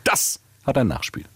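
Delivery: locker und gelassen, Druck auf hat; beiläufig entspannt: Das HAT ein Nachspiel; ganz entspannt. Acted. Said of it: "Und das Nachspiel dann wieder ganz entspannt". (ganz entspannt gesagte Drohung)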